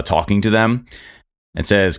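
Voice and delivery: normal talking voice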